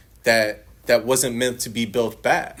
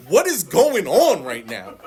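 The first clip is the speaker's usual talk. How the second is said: laughing disbelief; 5 semitones higher, 3 dB louder, slower than usual. Retold or imitated. Stunned by the testosterone question.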